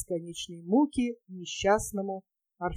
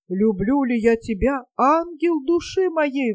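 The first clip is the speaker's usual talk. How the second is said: exclaiming; 4 semitones higher, 4 dB louder than usual. Acted. Captain kneeling before the gypsy, exclaiming passionately. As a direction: declare it like a kneeling lover, a touch hammed-up. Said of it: "воскликнул капитан".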